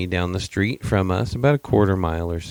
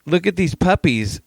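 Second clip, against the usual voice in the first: high, gushing delight over puppies; puppy-smitten high voice; excited gushing; 9 semitones higher, 3 dB louder than usual. Retold or imitated. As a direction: squeal it like she's melting at the sight. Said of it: "and she goes".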